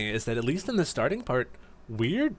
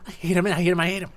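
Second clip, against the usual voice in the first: raised, insistent hammed-up fuming; mock angry rant; 6 semitones higher, 3 dB louder, much faster than usual. Espeon fuming over the greedy Duskull, hammed-up anger. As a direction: stomp out each hate like a sulking child.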